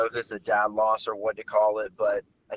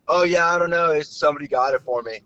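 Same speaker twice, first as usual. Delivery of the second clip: shrugging stranger; 7 semitones higher, 5 dB louder than usual. Retold or imitated.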